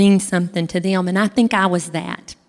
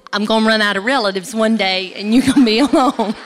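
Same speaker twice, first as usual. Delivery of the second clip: laughing tease; 2 semitones higher than usual. Retold or imitated. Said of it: "She said".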